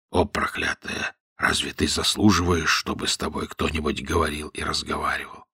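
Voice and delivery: low and faint, half breathed; a sickly man scolding feebly; weak, faint reproach; weakened voice. A narrator's reading. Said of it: "царь ослабил голос и отвечал".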